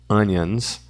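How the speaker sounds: Onions with the weight on the first syllable, O said like A; stress first syllable. Shown as a demonstration. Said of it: "Tônica na primeira sílaba". (tônica na primeira sílaba de Onions)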